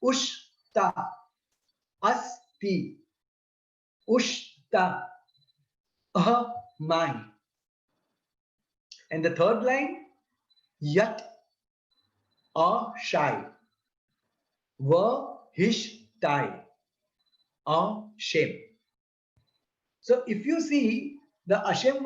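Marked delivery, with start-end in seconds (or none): 0.0-7.2 a shame, wo hu, va hish tem, asti slowly split into syllables with pauses. Shown as a demonstration. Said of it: "broken up into syllables". 10.8-18.5 a shame, wo hu, va hish tem, asti slowly split into syllables with pauses. Shown as a demonstration. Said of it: "broken up into syllables".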